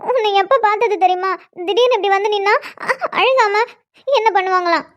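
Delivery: tearful. Acted. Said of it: "இப்ப காலையிலயும் அழுகுறது".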